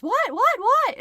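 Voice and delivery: quick rising repeated questions, last one high and loud; alarmed what. Retold or imitated. Husband answering his wife's shout, quick alarmed questions.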